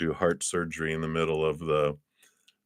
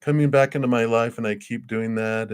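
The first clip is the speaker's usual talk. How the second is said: high, put-on recounting of romantic woes; mock helpless plaint, starting very high; imitating a lovelorn complainer; 8 semitones higher than usual. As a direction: mimic someone going on about an ex. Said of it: "someone used to be like".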